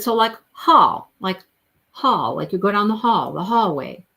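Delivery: "hall" with an open "aw", as in hallway; DJ explaining pronunciation. Retold or imitated. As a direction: punch "hall" with a rounded "aw". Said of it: "So she said".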